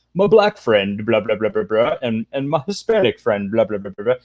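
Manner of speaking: lightly mocked activist voice; a mild parody of activist speak; mocking activist talk. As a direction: imitate them dismissively, rattling off the blahs. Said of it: "they always talk like this".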